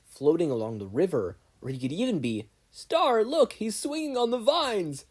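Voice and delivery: rally the team like a hyped-up leader; excited Star. A narrator's reading. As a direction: Star leading the hunt, a lightly voiced excited commander.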